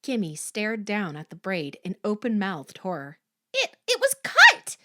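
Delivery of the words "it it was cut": high, loud, shocked stammer; horrified, halting outburst. A narrator's reading. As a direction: stumble on the first word, then cry out. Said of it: "she stammered".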